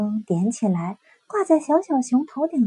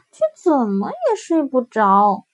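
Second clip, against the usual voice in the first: usual speaking voice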